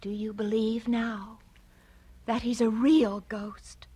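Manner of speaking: awed unvoiced whisper. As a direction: whisper it in awe.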